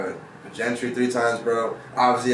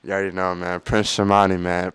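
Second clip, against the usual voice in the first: ordinary delivery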